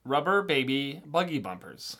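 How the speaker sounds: put-on slow, careful Rubber baby buggy bumpers; slow tongue twister. Shown as a demonstration. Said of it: "the next one".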